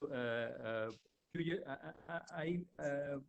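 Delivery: faint and distant on the mic; barely audible. Real, not acted. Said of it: "You are a bit faint".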